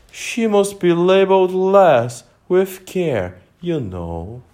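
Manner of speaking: a mild, kindly far-off passenger; gentle voice. A narrator's reading. Distant passenger gently suggesting Alice be labelled, slow. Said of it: "a very gentle voice in the distance".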